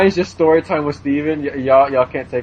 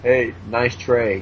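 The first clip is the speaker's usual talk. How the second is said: 1 slow dopey Alan; 4 semitones lower, much slower than usual. Retold or imitated. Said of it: "And he'd be all like".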